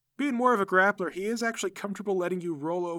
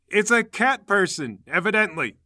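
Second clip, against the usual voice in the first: matter-of-fact answer; 4 semitones higher, 5 dB louder than usual. Acted. Associate answers the yelling fighter, matter-of-fact. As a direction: state the obvious with emphasis. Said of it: "McGoffel says".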